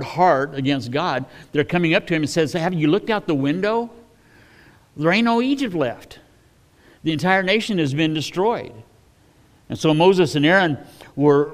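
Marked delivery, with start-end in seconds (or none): 2.5-8.7 servants begging Pharaoh to see sense; exasperated servants. Acted.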